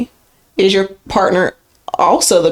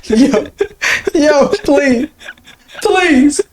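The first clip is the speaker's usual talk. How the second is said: high, laughing plea through giggles; cracking up, words squeezed out high; helpless laughter; 7 semitones higher, much slower than usual. Real, not acted. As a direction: beg through a real fit of laughter. Cracking up over neither, begging relief.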